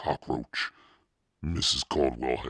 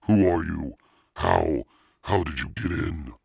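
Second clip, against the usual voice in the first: higher, louder panicked stammer; terrified questions; 4 semitones higher, 6 dB louder than usual. A narrator's reading. Terrified boy asking the intruder, panicked. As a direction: demand answers in panic.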